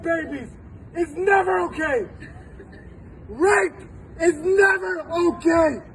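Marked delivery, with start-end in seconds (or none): 3.3-5.8 slow, crying catch on the words; real tears pushing through; choked up. Real, not acted. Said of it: "I'm getting emotional".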